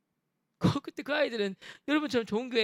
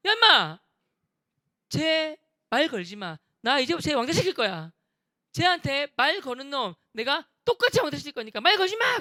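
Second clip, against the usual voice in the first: loud shout, higher at the start; furious yell; 3 semitones higher, 5 dB louder than usual. Retold or imitated. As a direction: bang the desk and yell at the class. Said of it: "흥분하면서 ... 책상을 치면서".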